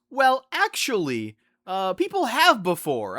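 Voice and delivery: lightly voiced smug coworker; quoting the coworker. Coworker correcting the speaker, slow and smug. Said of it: "he responded with".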